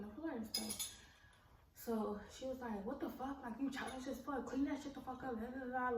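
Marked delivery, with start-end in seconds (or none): 2.9-6.0 retold screaming. Roommate scolding her over the mess, mock screaming. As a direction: imitate her scolding in a raised pitch. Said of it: "just screaming and yelling at me".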